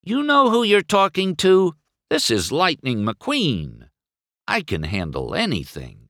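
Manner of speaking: indignant, settling into cocky assurance. A narrator's reading. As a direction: boast with wounded pride. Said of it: "McQueen said indignantly".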